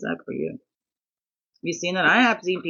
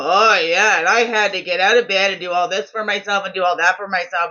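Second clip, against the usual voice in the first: mocking whiny complaint; 6 dB louder than usual. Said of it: "they turn around and go".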